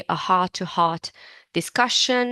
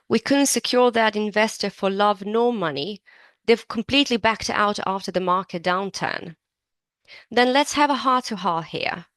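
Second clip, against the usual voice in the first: lightly acted business talk, a touch brighter; reading a dialogue part; 2 semitones higher than usual. Two colleagues weigh delaying the campaign, lightly acted. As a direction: play both colleagues in a mild, earnest tone. Reads a dialogue role aloud.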